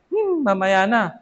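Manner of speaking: slow, dragging mock reluctance; lazy child. Preacher mimics a child putting off his mother, slow and reluctant. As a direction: stall like a bored kid.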